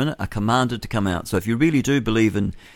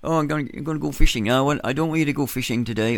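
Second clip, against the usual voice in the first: higher, chirpy put-on accent for a bloke at the wharf; host acting out Jesus meeting fishermen at Auckland Wharf, in a mock accent; mock fisherman accent; 6 semitones higher than usual. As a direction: play the fishermen in a jokey put-on accent, lifted up high. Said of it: "I'm speaking in the wrong accent".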